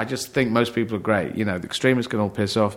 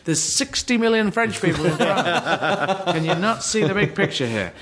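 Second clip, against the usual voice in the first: mock-passionate pitch to the promoter; excited retort; 7 semitones higher than usual. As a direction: sell the big vision with a laugh. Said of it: "And I was saying".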